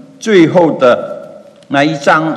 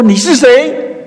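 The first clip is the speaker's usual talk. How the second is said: awed question; 11 semitones higher, 5 dB louder than usual. Retold or imitated. Moses asks the voice.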